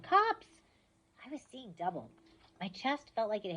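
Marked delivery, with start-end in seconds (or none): 0.0-0.6 high, loud alarmed shout; urgent warning shout. Acted. Annabeth warning loudly.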